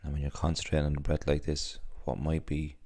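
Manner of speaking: unhurried body scan voice, long pauses between phrases; guided meditation. Acted. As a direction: gently guide them through the body, leaving space after each instruction.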